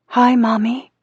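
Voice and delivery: high-pitched little daughter; childish voice. A narrator's reading. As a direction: greet your mother in a small child's high voice. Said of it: "Her childish voice through the speaker".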